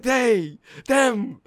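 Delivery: high, loud urgent retort; reenacted hype exchange. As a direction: shout back at a hyped teammate. Shouted back-and-forth hype routine.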